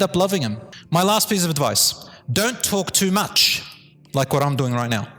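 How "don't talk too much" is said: slow emphasis. Real, not acted. Emphatic last piece of advice.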